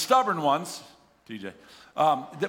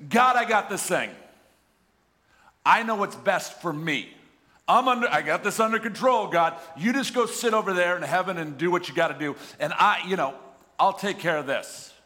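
cocky sinner. Pretend. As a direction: play the proud sinner brushing God off. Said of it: "It's saying this".

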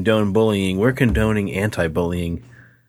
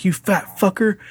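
higher mock bully jeer; imitating the bully; 10 semitones higher than usual. The speaker repeating his taunt in a high mock jeer. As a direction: jeer it up high like a schoolyard tough.

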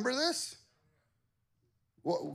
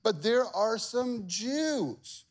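higher, slow tattling courtier voice; accusing officials; 6 semitones higher, slower than usual. Acted. Officials accusing the Jews to the king, tattling. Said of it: "They said this".

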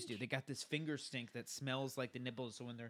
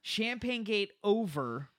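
triumphant; 8 semitones higher, 8 dB louder, slower than usual. Real, not acted. Mock triumphant announcement.

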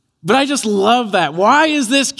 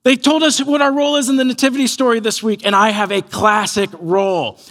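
lightly voiced eager five-year-old; excited little boy; 3 semitones higher than usual. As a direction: imitate an excited kid telling mom his news. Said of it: "he's so excited to tell his mom".

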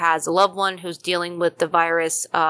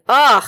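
loud, higher mock groan of exasperation; imitated groan; 5 semitones higher, 8 dB louder than usual. Host imitating colleague hearing about zombie makeup, loud exasperated groan. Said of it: "Tom right now ... is going".

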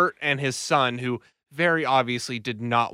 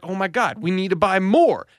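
higher, mock thrilled wife; imagined delight; 5 semitones higher, 4 dB louder than usual. Seller imagines a wife wanting more vanilla, mock excitement. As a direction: gush it up high, building louder.

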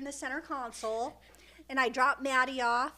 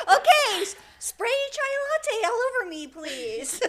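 high, loud, laughing mock request; mock crazy customer; 9 semitones higher, 5 dB louder than usual. Mocking a customer who wants coffee spilled on her, laughing. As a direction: laugh through it like a giddy lunatic. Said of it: "mental cases that were like".

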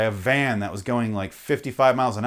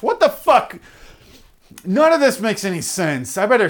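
mock baffled rubbernecker; 6 semitones higher, 3 dB louder than usual. Rubbernecker puzzling over a crash to other drivers, hammed-up high voice. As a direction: ham up a clueless gawker squinting at a crash.

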